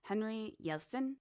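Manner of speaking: amateur Swedish accent, lifting at the end; attempted Swedish accent. Shown as a demonstration. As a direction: have a rough go at a Swedish accent.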